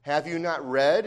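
a light sarcastic jab with a rising end; Jesus mildly mocking the Pharisees, sarcastic. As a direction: needle them gently, tongue in cheek. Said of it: "he says that sarcastically".

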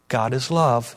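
low, dry sarcastic aside. Real, not acted. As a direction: toss it off with dry irony. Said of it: "I'm being sarcastic".

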